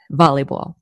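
put-on VOLLEYBALL in an old Jersey accent; old East Coast accent. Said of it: "I don't talk like that anymore".

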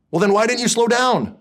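exasperated wife. Retold or imitated. Wife scolding husband for not slowing, high loud reproach. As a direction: demand an answer, fed up.

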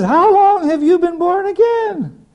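high, drawn-out disbelief; slow incredulous high voice. Retold or imitated. Pilot questions his guest, slow and high in disbelief. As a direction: stretch each word in stunned disbelief.

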